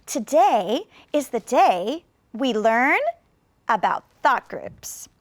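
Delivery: slow, a pause after "learn"; slow with many pauses. Shown as a demonstration. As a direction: spell it out for a big audience. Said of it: "then maybe I will add even more".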